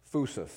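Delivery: phusis said slowly as FOO-sis; Greek word phusis. Shown as a demonstration. Pastor teaching the church a Greek word, careful FOO-sis. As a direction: pronounce phusis as foo-sis for the class to repeat. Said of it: "Say phusis".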